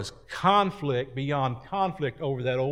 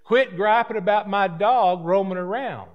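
country dog owner; 4 semitones higher than usual. Retold or imitated. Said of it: "The, the country person was saying".

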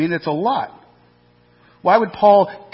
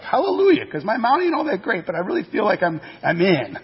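relieved hallelujah; 4 semitones higher than usual. Retold or imitated. Congregant's relieved reaction, voiced.

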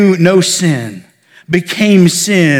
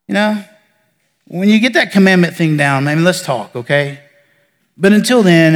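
disinterested God. Retold or imitated. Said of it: "he's just so disinterested".

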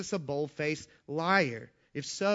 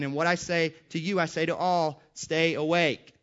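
raised, emphatic scripture recital; forceful preaching; 2 semitones higher, 5 dB louder than usual. Acted. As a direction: hammer each quoted command home to the congregation. Preaches repeated verses with force.

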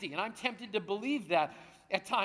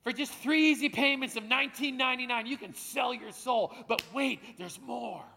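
used car salesman pitch; infomercial; 3 semitones higher than usual. Acted. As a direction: sell it like a late-night TV ad. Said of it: "he's a used car salesman".

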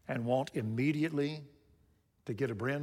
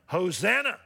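mildly raised voice of a crowd's cry; louder, higher quoted acclamation; 4 semitones higher, 5 dB louder than usual. Retold or imitated. Preacher quoting the crowd welcoming Jesus, crying out. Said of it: "they're crying out in verse nine".

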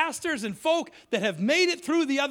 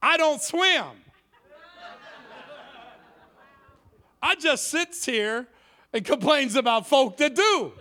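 put-on old boy; 3 dB louder than usual. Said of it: "Old boy says".

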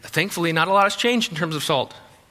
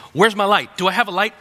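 higher, louder pretend outburst; mock agitation; 3 semitones higher, 4 dB louder than usual. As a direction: play-act an indignant driver hunting for a siren. Acting out wanting police light.

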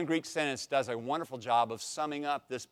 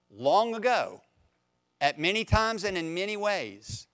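scripture reading; 3 semitones higher than usual. Acted. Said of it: "Let me just read those verses".

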